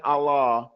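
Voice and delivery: "Allah" with one light l; wrong, shadda dropped. Shown as a demonstration. Teacher repeating the error to avoid, single-l "Allah". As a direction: say "Allah" without doubling the l. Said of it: "It's not Allah".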